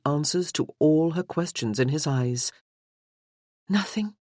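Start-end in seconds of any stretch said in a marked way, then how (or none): 3.7-4.1 rising, hushed question. A narrator's reading. Morgan asks him quietly, rising on "Nothing?". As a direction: ask "Nothing?" with a lifting, uncertain tune. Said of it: "was all she had asked".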